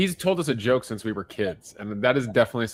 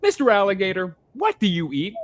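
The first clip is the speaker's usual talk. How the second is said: high, eager cartoon frog asking; wide-mouthed frog voice; 9 semitones higher, 4 dB louder than usual. Telling dad's joke to listeners, as a high eager frog. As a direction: squeak it up like a big-mouthed frog.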